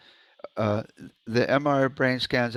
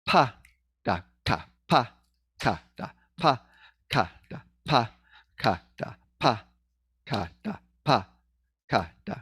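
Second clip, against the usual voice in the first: steady "Pa, ka, da" drill with silent beats; rhythm with dropouts. Shown as a demonstration. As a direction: leave a gap where a syllable drops out of "pa, ka, da".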